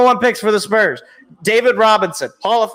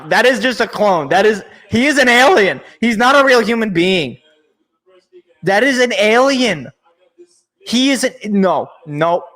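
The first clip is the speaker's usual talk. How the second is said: real incredulous insistence, leaning hard on key words; higher, punchy and adamant; emphatic disbelief; 4 semitones higher than usual. Real, not acted. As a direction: insist on it, pitch raised. Insists the player is not human.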